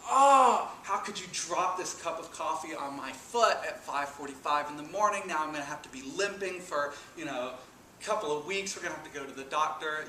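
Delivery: hammed-up frustrated griping, half joking; mock angry complaint. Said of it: "I was so mad and frustrated at my wife".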